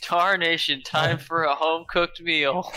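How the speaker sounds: lightly voiced old prospector. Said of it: "do your Root impression".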